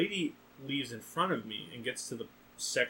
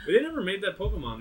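laughing; 7 semitones higher, 4 dB louder, faster than usual. Real, not acted. Still laughing at the joke.

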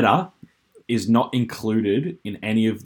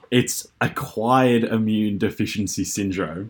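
laughing; slower than usual. Real, not acted. Reveals the answer, laughing.

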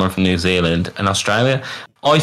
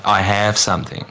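"have" said with an open Australian a, "I have something"; light Australian "I have something"; Australian pronunciation. Shown as a demonstration. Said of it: "Jack will probably say".

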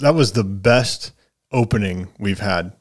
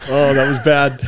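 ordinary talk, nothing marked

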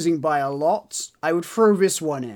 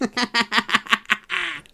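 rapid staccato laugh; 5 semitones higher than usual. Real, not acted. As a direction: run of quick chuckles. Laughs at being refused the point.

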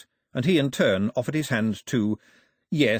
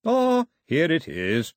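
slow, higher, loud announcement; raised voice, drawn-out "Ah"; loud exclamation; 6 semitones higher, 4 dB louder, slower than usual. A narrator's reading. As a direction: announce the find loudly. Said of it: "said the bishop very loudly".

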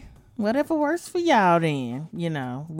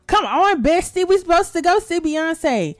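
higher-pitched coaxing whine; playful pleading; 5 semitones higher, 3 dB louder than usual. Pretend. Host pleading with bestie about tickets to a singer's concert, playfully.

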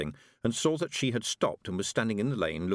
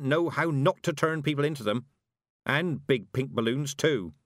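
put-on no-nonsense old witch; 6 semitones higher, 3 dB louder than usual.

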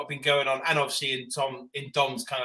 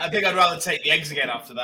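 laughing; 3 dB louder, faster than usual. Shown as a demonstration. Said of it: "you don't have to do it again".

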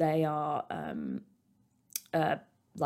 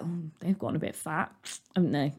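gossipy British murmur; 6 dB quieter, faster than usual. Retold or imitated. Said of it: "British people will be like".

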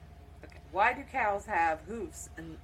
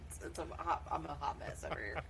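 laughing; 11 dB quieter than usual. Real, not acted. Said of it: "My eyes are watering and itching".

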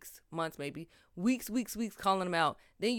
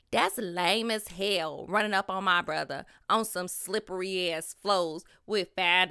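reading her post in a voice; 3 semitones lower than usual. Retold or imitated. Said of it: "I gotta do my voices".

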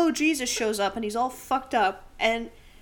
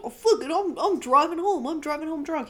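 mock drunk bravado; 6 semitones higher, 6 dB louder than usual. Drunk guy deciding to drive.

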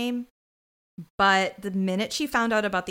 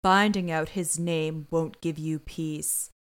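condescending; 5 semitones lower, slower than usual. Retold or imitated. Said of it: "She's being condescending and being like".

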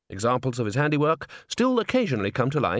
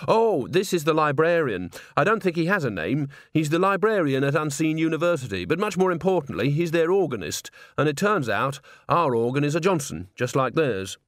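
organist's higher, lively voice; chatty young organist; 4 semitones higher than usual. Acted. Organist introduces the librarian to Agnes, lightly voiced and chatty. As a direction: introduce a colleague with easy enthusiasm.

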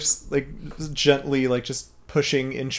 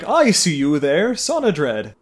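put-on a touch louder, lightly childlike; mock child voice; 5 dB louder than usual. A hint of a child, teasing the story's voice. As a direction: poke fun at the child voice. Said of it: "What child sounds like".

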